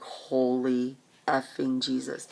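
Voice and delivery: drawn out slowly in shock; slow, horrified oath; slow stunned oath. Retold or imitated. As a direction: let it out slow, aghast. Walking through wrecked streets.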